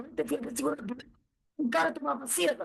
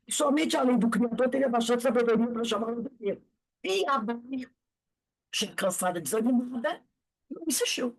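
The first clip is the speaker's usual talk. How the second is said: book reading aloud; 2 semitones lower than usual. A narrator's reading. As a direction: read it out from the page.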